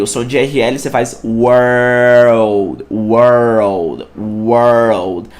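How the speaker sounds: World, careful R-L sound; correct pronunciation. Shown as a demonstration. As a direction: stretch World so the R-L comes through. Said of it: "cê tem o R L".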